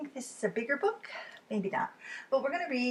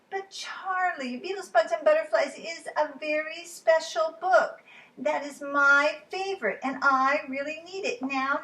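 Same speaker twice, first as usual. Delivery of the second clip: put-on high, insistent little girl; a small girl who must have her book; Lola voice; 7 semitones higher than usual. Lola insisting to Charlie, high and pleading.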